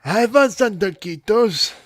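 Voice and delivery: high, loud, very slow silly voice; hammed-up muffled intercom; mock garbled intercom. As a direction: drag out each word comically. Repeating the joke, slow.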